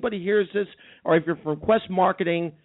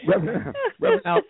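calling out high; faster than usual. Acted. Host calls character.

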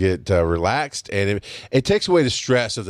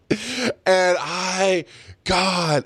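laughing to tears; 9 semitones higher, much slower than usual. Retold or imitated.

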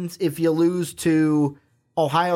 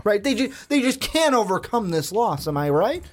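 higher-pitched, put-on certainty; mock sarcastic; 5 semitones higher than usual. Host pressing co-host to agree the team is doomed, sarcastically. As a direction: fish for agreement with tongue in cheek. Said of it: "That is huge sarcasm".

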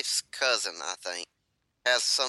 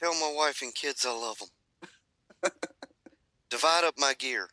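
wounded soldier gasping; 2 semitones higher than usual. Pretend. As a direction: give your last wishes, fading. Playing the dying skunk victim.

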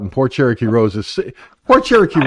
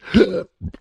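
sharp hiccup gasp; 6 semitones higher than usual. Real, not acted. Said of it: "I've got the hiccups real bad".

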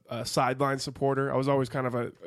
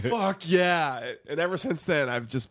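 fan cheering; 3 semitones higher, slower than usual. Retold or imitated. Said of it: "It was like".

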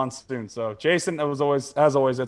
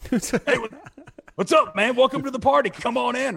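excited greeting; 8 semitones higher, 4 dB louder than usual. Retold or imitated. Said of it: "He has no clothes on".

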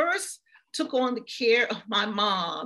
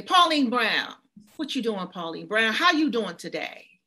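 firm, louder, stately calling of her name; authoritative greeting; 6 dB louder than usual. Retold or imitated. Daughter greeting her mother with dementia, authoritative and proud. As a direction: greet her like a woman of standing. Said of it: "I say her name in an authoritative way".

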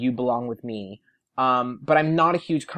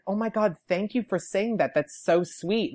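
higher-pitched touched gratitude; shocked and flattered; 6 semitones higher than usual. Retold or imitated. Taylor answering a fan's compliment, sweetly surprised. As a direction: imitate a star taken aback by a compliment. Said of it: "looked at me shocked and was like".

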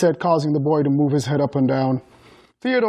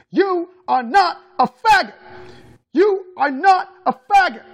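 high-pitched furious scream, word by word; incessant screaming; 12 semitones higher, 4 dB louder than usual. A narrator's reading. Mother screaming as she beats her son, screamed. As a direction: scream it with punched, separated words. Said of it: "she screamed incessantly".

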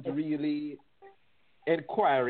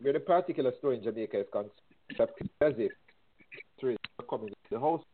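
buzzy glitchy call audio. Real, not acted. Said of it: "You're breaking up a bit".

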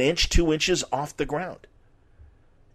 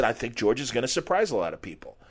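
slurred Ali voice; 5 dB quieter, faster than usual. Retold or imitated. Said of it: "slightly slurred voice".

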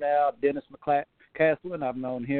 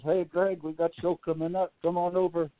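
a weak, hammed-up German accent, a little quicker; lightly put-on German accent, barely there; bad German accent; 3 semitones higher than usual. Phoning a friend about a show, in a bad German accent. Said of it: "I do a bad German accent".

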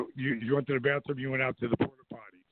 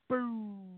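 higher, muffled far-off boom; distant bomb boom; 9 semitones higher, 5 dB quieter than usual. Shown as a demonstration. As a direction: imitate a faraway explosion. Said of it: "It was like".

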